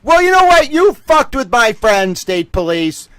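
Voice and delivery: loud, high, defiant call-out; rising defiance, voice up high; defiant outburst. Real, not acted. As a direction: shout it at the state police. Defiant call-out to state police.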